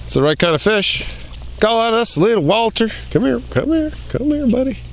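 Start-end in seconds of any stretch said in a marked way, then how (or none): 1.6-4.8 high little coaxing voice; high-pitched beckoning; coaxing a pet. Real, not acted. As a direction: coo to the small fish in a high voice.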